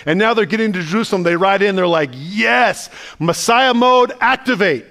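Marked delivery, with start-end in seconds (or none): 2.1-4.9 excited cheer. Retold or imitated. Disciples cheering Jesus's arrival.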